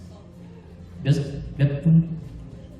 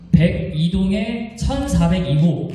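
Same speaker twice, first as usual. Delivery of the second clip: booming prize announcer; slower than usual. Real, not acted. MC calls winning apartment number.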